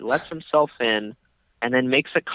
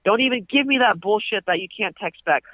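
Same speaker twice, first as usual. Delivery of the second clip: put-on high, scolding older man; mock millennial rant; 5 semitones higher than usual. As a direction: lecture the millennials, pitched up. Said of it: "this whole millennial rant".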